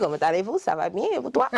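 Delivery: Comment allez-vous said playfully in French, laughing at the end; French greeting, laughing. Retold or imitated. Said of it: "making fun of how I would say things".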